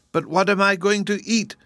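high, plaintive kitten wail. A narrator's reading. Hungry kitten appealing to Dorothy, wailing. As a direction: bemoan an empty belly. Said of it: "wailed the kitten".

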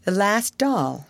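put-on little girl mourning her last doll; mournful. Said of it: "her little mournful voice".

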